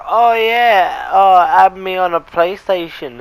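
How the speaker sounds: high girly mock voice, slowed; imitating her voice. A boy mimicking the girl asking to add him, high and girly. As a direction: put on a sweet high girl voice. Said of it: "she was all like".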